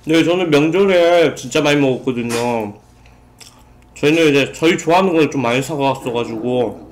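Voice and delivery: speaking between bites; talking while chewing. Real, not acted. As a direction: mouth partly full of food. Seen 1: Bites pizza just before; cheeks full, chewing while talking.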